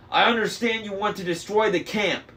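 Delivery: yelled. A narrator's reading. Annabeth yelling at Luke about the camp. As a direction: yell it at him. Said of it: "she yelled".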